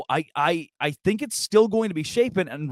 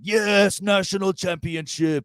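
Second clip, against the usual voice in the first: put-on Arkansas accent; 3 semitones higher, slower than usual. Podcaster mimics Arkansas fans at a spring game, mock local accent. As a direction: imitate a cheering fan with an Arkansas accent. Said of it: "that accent".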